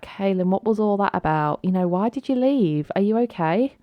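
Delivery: lightly voiced mum checking on her daughter; questioning mum. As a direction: ask it as a mum ringing after an upset. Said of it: "Ileana's gonna ring her up and be like".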